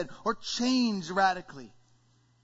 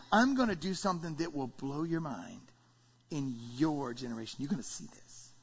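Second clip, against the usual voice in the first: low, softer promise; God speaking; 6 semitones lower, 5 dB quieter than usual. Acted. Preacher voices God promising a surprise, low divine voice. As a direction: sink down into a hushed pronouncement. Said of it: "And God says".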